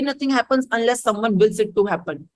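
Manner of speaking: very slow, spelled-out rule; slow mantra. Shown as a demonstration. Teacher repeats her motto to students, very slow. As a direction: lay out each word slowly like a motto. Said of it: "repeats mantra".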